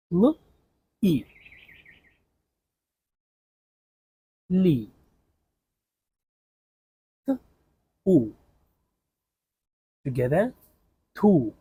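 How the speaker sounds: letters said apart, then joined into li and tu; syllable blending. Shown as a demonstration. Teacher modelling reading by syllables. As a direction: sound out each letter, then merge them. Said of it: "For example".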